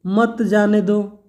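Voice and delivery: slow "मत जाने दो" as one group; separate phrase after comma. Shown as a demonstration. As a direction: start afresh on "मत", joined to "जाने दो". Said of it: "सिर्फ एक कामा के प्रयोग से".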